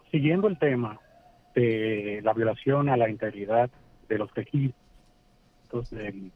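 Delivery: caller's phone breaking up; choppy, cutting-out phone line; glitching audio. Real, not acted. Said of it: "se está cortando".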